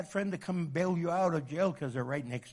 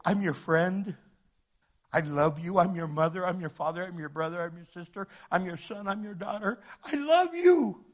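loving friend; 2 semitones higher, 4 dB louder than usual. Retold or imitated. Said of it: "And they go".

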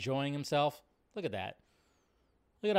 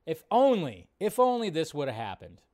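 wistful sigh; 4 semitones higher, 5 dB louder than usual. Pretend. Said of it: "you just kinda go".

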